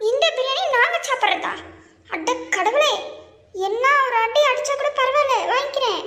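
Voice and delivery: high-pitched, comic dismay with a laugh creeping in; mock horrified pleading. Victims beg not to be fed the biryani, mock horrified. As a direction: plead in exaggerated dread.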